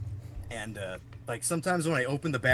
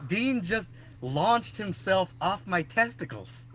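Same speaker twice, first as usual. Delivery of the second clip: laughing dad quote; 6 semitones higher, slower than usual. Retold or imitated. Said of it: "he goes".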